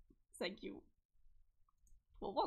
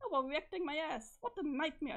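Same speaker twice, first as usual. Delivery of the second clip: indignant retort; 2 semitones higher, 4 dB louder than usual. Acted.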